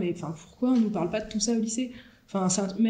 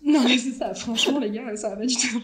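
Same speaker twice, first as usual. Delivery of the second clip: laughing; 4 dB louder, slower than usual. Real, not acted. Laughing confession to classmates.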